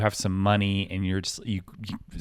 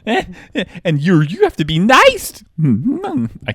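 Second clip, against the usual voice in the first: laughing; 10 semitones higher, 11 dB louder, slower than usual. Real, not acted. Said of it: "his voice keeps cracking".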